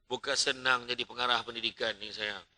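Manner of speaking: low, soft coaxing reply to his wife; calm her down, gently; a husband sweet-talking his wife, soft and low; soothing husband. Retold or imitated. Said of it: "saya kata".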